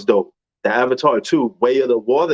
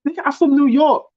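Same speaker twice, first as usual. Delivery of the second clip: emphatic; 12 semitones higher than usual. Real, not acted. Defending his way of talking.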